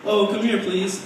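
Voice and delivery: lightly acted high-pitched coaxing dad; pleading father. Dad calling his teenage daughter over, mock pleading.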